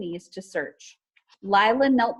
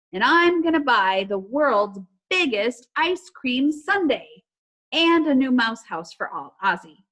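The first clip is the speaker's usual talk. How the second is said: dreamy excitement; 4 semitones higher, 5 dB louder than usual. Acted. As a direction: savor each treat you'll buy. Ollie imagines his purchases.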